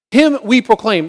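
"Him we proclaim" as one firm declaration, HIM stressed; emphatic exclamation. Shown as a demonstration. Preacher repeating the verse with an exclamation point, emphatic. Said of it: "with an exclamation point".

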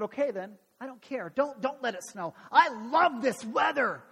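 mock not caring, building to a loud finish; acted sulky kid defiance; disappointed sarcasm. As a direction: pretend not to care, then overdo it. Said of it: "in his disappointment".

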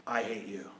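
unvoiced whisper of hate; whispered insult. Preacher quoting a hater, whispered. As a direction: breathe the words like a hissed secret. Hostile person's words, whispered.

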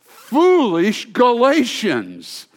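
Paul scolding the Galatians, slow and loud; strong rebuke. Acted. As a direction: drag out the rebuke. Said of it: "the pinnacle of Paul's strongness".

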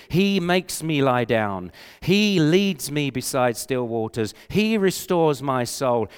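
slow and firm on "He"; stress on He. Shown as a demonstration. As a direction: hit "He" at the start of each line. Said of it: "The language is active".

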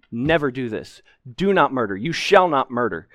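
firm stress on "Do" and "shall"; emphatic command. Shown as a demonstration. Preacher stressing a commandment to the congregation, firm punch on "shall". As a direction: lay down "Do not murder" as law, punching "Do".

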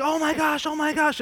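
high, loud mock-panicked cries; imitated screaming. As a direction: imitate a friend shrieking in a panic. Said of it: "screaming, like".

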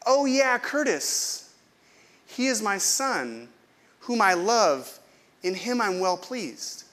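slow and fond, like a proud father; God's voice. Retold or imitated. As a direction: friend retelling God's words, a touch of tender, slow. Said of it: "I heard God saying to me".

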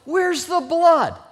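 loud, slow, high-pitched demand; military father. Retold or imitated. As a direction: challenge a wimpy son at full volume, word by word. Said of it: "He repeated it several times".

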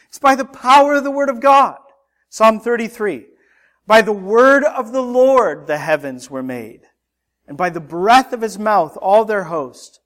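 high, loud, ringing proclamation; impassioned preaching. Real, not acted. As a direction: proclaim it to the congregation with force. Preaches with rising force, declaiming scripture.

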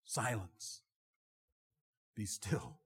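rebuking command. A narrator's reading. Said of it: "rebuked the wind and said".

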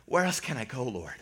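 quiet plea, dropping low on the last word; lost, forsaken. Acted. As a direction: ask it softly, as if at a loss. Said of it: "felt just lost and on the edge".

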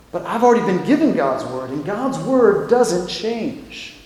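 hushed objection, slowing right down at the end; understated, reluctant prophet; quiet resistance. Acted. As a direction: softly hold your ground, drawing out the last words. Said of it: "the prophet is kind of resisting".

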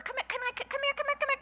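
put-on high, quick Asian-accented calls of come here; imitating an Asian accent. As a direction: mimic the nail lady calling in her Asian accent. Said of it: "she speaks in that accent".

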